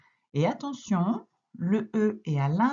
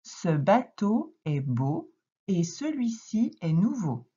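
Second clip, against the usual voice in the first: put-on slow, even read-aloud for a child; slow careful reading aloud; slower than usual. Shown as a demonstration. Teacher reading slowly to a young pupil, clearly. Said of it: "je te relis les phrases à voix haute".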